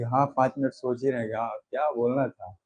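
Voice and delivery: a hint of forgetting what to say; mock hesitating. Shown as a demonstration. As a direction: drift into a lost-in-thought pause. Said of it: "pause का मतलब एकदम नहीं कि".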